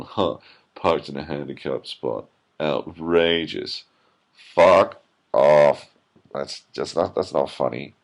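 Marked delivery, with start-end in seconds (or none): 0.0-3.8 lightly voiced smug writer, drawn out; a hint of a self-pleased hipster musing. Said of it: "writing that going". 4.5-5.9 shouted, much louder; loud outburst. Retold or imitated. Mock writer's punchline.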